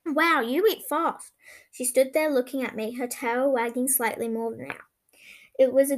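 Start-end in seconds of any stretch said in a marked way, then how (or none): 0.1-1.3 slow, amazed wow. A narrator's reading. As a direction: marvel at how fast. Amazed at the puppy.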